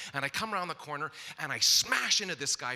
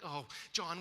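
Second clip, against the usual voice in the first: soft soothing; 7 dB quieter than usual. Retold or imitated. Son comes crying.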